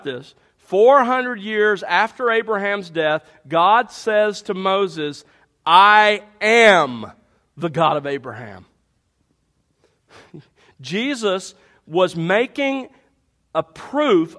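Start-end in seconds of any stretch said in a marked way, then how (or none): 5.6-8.7 "I am" said loud and drawn out, the rest dropping low; stress on I AM. Shown as a demonstration. Preacher to the congregation, hammering "I am" loud and slow. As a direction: lean hard on "I am" as present tense. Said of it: "arguing on the emphatic present tense".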